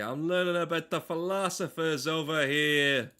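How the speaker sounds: a brash New Yorker protesting loudly; New York accent. Pretend. Streamer repeats his complaint in a loud New York accent. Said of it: "Doing fucking New York accent".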